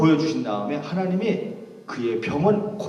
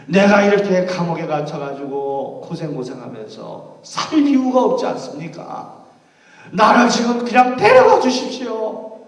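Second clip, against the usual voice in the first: pleading, rising higher and louder on the ask; weary pleading prayer; 4 semitones higher, 5 dB louder than usual. Acted. Paul in prison asking God to take him home. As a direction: ask to be taken home, longing.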